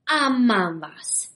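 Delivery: slow, gruff growled threat; growling brute. Acted. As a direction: growl it like a bulldog henchman. Henchman's catchphrase.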